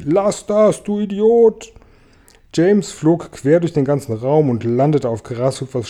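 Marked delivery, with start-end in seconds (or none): 0.0-1.7 high, loud narrated shout; angry yell. A narrator's reading. Tausendfüßler kicks out at James, high angry shout. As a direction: yell it out, pitch climbing sharply. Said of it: "trat um sich und schrie".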